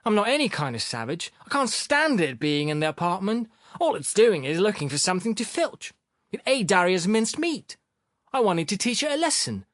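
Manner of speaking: high-pitched sulky self-defence; sullen. A narrator's reading. Sharikov explaining himself to Philip, sullen. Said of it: "Sharikov responded sullenly".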